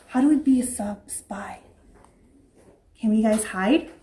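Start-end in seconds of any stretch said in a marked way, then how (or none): 0.1-1.6 sneaky spy whisper; playful whispered spy talk. Pretend. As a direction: hush it like a secret agent.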